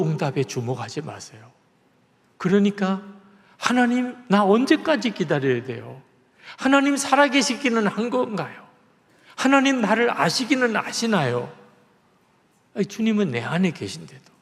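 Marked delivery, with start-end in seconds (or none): 3.6-11.5 high, pleading cry to God; desperate prayer, pitched high. Retold or imitated. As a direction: plead impatiently, as if shouting at heaven. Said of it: "큰 소리로 소리소리 지르게".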